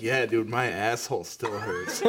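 laughing punchline. Real, not acted.

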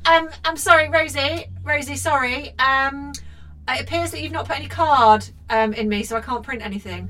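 high, polite robotic printer voice. Retold or imitated. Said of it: "there's an orange light going".

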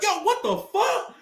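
mock dude shout. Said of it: "and the dude be like".

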